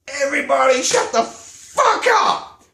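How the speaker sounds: high, loud shout across the room; mock bellow at an arguing family; retold yell. He yells to silence the room.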